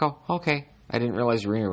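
cat's voice. Retold or imitated. Cat answering its owner's call, innocently surprised. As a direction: play the cat acting surprised. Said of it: "he comes to me like".

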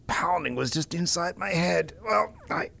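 groggy hungover mumble. Real, not acted. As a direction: sound sluggish and hungover. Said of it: "Despite this hangover".

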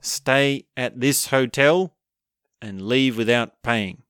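slow, deliberate reading of a diary entry; slowly reading his own diary note back to the man; reading aloud from a diary. Retold or imitated. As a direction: spell out the diary entry word by word. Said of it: "And he reads".

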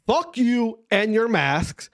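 each word spaced out slowly; slow deliberate. Shown as a demonstration. Telling mask scolds off, slow deliberate. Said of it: "I repeat".

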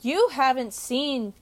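slow, mildly snobby line; snobby film fan. Pretend. Friend supplies a film Twitter line, lightly snobby. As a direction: offer a snob's phrase, drawn out. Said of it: "a really snobby, like, phrase".

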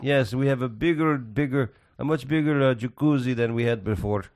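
put-on light Italian accent; cheery Italian clerk, lightly put on. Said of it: "Was that your Italian accent?".

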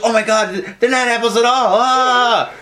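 high-pitched mock panic; mock screaming. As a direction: imitate a screaming victim, building to "Ah!". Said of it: "the girl starts screaming".

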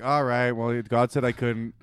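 low-key, resigned report; lightly acted offhand letdown; casual Balaam. Balaam telling Balak what God said, casual. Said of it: "He's just gonna be like".

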